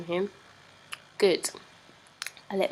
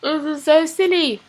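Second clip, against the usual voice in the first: giggling; 9 semitones higher, 11 dB louder than usual. Real, not acted. Laughing at own accent.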